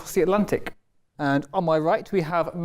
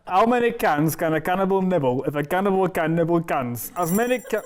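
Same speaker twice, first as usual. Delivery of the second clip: tongue twister in an attempted Yorkshire accent. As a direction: have a go at broad Yorkshire. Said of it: "Uh, Yorkshire".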